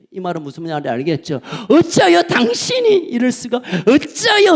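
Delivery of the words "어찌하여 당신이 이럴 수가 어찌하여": anguished cry. Acted. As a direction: cry out why to God in anguish. Preacher crying out in lament.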